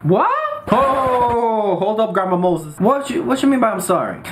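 sassy indignation. Real, not acted. Indignant outburst at the whisperer.

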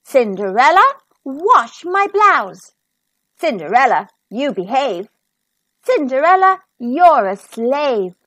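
a touch of bossy calling out; mock-commanding the servant girl; bossy stepfamily orders. Stepfamily barking chores at Cinderella, lightly bossy.

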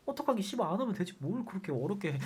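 soft, quiet muttered thought; inner grumble. Retold or imitated. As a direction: grumble it under your breath. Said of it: "속으로".

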